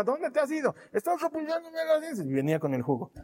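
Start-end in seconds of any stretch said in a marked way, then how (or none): 0.0-0.7 1 mother calling. Retold or imitated. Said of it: "mi mamá". 0.9-2.3 put-on 1 teen reply. Teen self answering mom.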